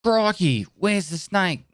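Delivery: high, lively mock army drill call; army catchphrase. Recalling army first aid drills, a lightly acted high call. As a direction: call it out like a cheery army medic. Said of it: "That's what we used to have to say in the army".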